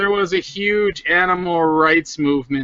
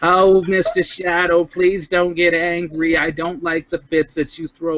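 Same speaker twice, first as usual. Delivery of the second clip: put-on New Jersey Jewish accent. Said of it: "So you're a New Jersey Jew now".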